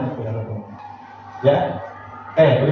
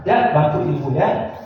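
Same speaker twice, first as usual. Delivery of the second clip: friendly encouraging; 5 semitones lower than usual. Retold or imitated. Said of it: "itu teman".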